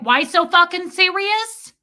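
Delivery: high, loud mock-Brooklyn jab; mocking Brooklyn accent. Mimicking the man to his face, mocking Brooklyn accent. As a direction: needle him in a put-on Brooklyn accent. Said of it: "hundred percent mocked and mimicked".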